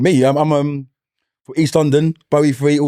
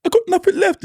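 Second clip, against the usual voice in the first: imitating Ian Bill. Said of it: "Ian Bill and that".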